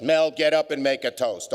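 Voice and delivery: insisting guests. Retold or imitated. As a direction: insist he gets up, like the whole table nagging.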